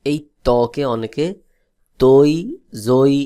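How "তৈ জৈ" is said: তৈ, জৈ with an added "oi" glide ending; common misreading. Shown as a demonstration. Teacher showing how many misread them, তৈ, জৈ with "oi" endings. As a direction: read the letters as তৈ, জৈ, ending in "oi". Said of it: "এইভাবে পড়ে".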